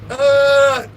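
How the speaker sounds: high, long held "uh" noise; mock a long high wail; imitated drawn-out wail. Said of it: "I thought he was yelling".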